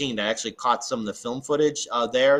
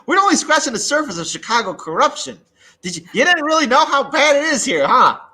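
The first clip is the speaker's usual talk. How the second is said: high, louder emphatic; 10 semitones higher, 6 dB louder than usual. Real, not acted. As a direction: drive the point home. Emphatic about corruption.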